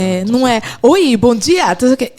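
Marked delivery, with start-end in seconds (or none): 0.8-1.7 lightly mocked presenter's hello; a touch of on-air formality; journalist greeting. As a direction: greet like a TV journalist, louder and punched. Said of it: "têm jornalista como assessor".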